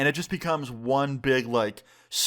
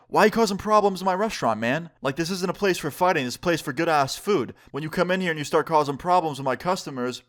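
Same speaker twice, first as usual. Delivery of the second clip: higher-pitched, mildly heated telling-off; acted scolding; 4 semitones higher than usual. Restaurant manager confronts Jared for bothering his customers, mildly angry. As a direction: replay a manager's indignant challenge.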